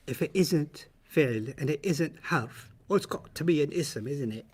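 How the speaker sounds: softly spoken, slow proper British English; measured, proper British delivery; proper British accent. Acted. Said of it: "For those of you that are very proper".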